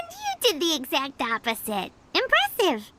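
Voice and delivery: low, dry sarcasm; deadpan jab; sarcastic. Acted.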